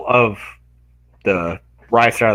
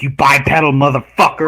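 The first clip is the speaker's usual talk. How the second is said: lightly voiced angry animal; imitated indignant tortoise; 3 semitones higher, 4 dB louder than usual. Tortoise to the human rescuer, mock indignant shout. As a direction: hurl it as a mildly shouted animal insult.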